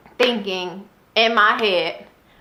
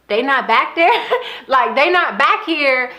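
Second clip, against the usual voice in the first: laughing disbelief; 3 semitones higher than usual. Real, not acted. Laughing at her own shock.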